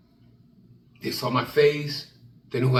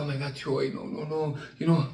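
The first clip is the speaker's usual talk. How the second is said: scared pleading. Retold or imitated. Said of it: "And I said".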